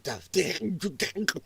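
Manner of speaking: spluttering as if choking on words; imitated choking splutter. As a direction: mimic a flustered agent choking. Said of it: "you'd almost hear her choke".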